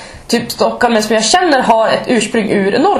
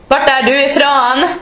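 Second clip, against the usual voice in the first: slow, higher, badly faked Stockholm accent; attempted Stockholm accent; 5 semitones higher than usual. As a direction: mimic a Stockholm colleague, clumsily. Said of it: "Jag kan inte ens härma stockholmska".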